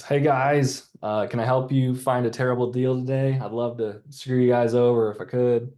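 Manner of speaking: joking icebreaker. Shown as a demonstration. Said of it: "some of the icebreakers I came up with".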